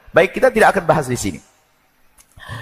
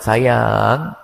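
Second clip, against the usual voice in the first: lower, cooing couple banter; sweet pet-name exchange with a sting; a husband and wife sweet-talking; 3 semitones lower, slower than usual. Retold or imitated. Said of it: "Pakai kalimat lembut".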